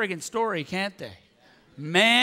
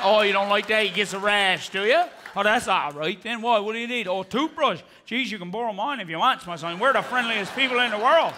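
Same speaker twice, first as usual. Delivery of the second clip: put-on Newfoundland accent. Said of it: "Newfoundlander voiced in skit".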